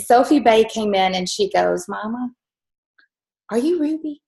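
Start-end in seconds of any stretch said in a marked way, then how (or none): 1.9-4.2 put-on child voice. Mother voices young daughter's question.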